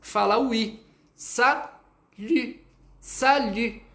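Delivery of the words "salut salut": "Salut" high, lips pushed forward on the u; drill: "Salut" com biquinho; lip-rounded salut. Shown as a demonstration. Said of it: "você vai colocar o biquinho".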